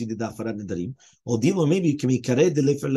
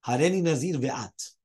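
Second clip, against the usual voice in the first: "ve'at" stated without a questioning lift; no question on "ve'at", just a statement. Shown as a demonstration. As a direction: state "Hareni nazir ve'at" as a plain declaration. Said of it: "He didn't ask a question".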